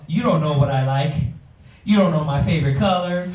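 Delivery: rapid-fire accusing wife; fast complaining wife. Retold or imitated. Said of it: "This was a".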